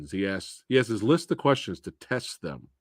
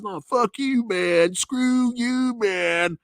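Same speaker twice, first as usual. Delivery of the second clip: high, rough-edged mock cabbie panicking; taxi driver voice; 11 semitones higher, much slower than usual. Narrator voicing the taxi driver refusing the bleeding wife, high panicky cabbie voice. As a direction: play the cabbie freaking out, way up high. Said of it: "And he's like".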